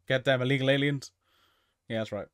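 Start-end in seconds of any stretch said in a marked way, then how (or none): 0.1-1.1 hammed-up outraged rant at the newcomers; mock angry Godzilla rant. Godzilla yelling at the space monsters, mock furious. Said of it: "That's what Godzilla's like".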